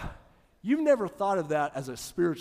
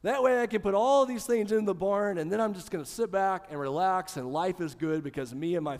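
lightly voiced rich fool; 3 semitones higher, 5 dB louder than usual. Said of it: "He said".

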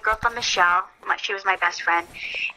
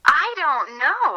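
slow, unsure; 7 semitones higher, much slower than usual. Real, not acted. Asked about most watched video.

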